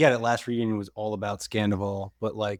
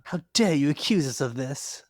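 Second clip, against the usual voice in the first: put-on English accent; 5 semitones higher than usual. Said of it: "You added a bit of an English accent to that".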